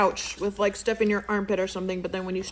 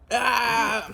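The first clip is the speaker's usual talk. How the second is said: guilty yelp; 2 semitones higher, 3 dB louder than usual. Acted. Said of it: "so I'm like".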